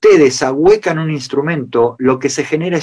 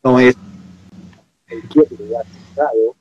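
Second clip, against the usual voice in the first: glitching audio; 2 semitones higher than usual. Real, not acted. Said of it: "se está cortando el audio".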